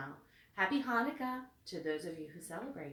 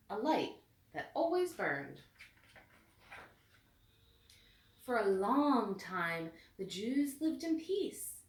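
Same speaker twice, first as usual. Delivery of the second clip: put-on steady storybook narration for a child; reading to children. A narrator's reading. Mother reading Hanukkah book to daughter, storybook voice. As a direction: read the story gently to your daughter.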